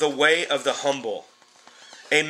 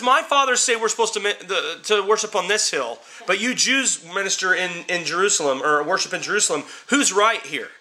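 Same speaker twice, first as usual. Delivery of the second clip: woman at the well; 4 semitones higher than usual. Retold or imitated. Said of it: "She says".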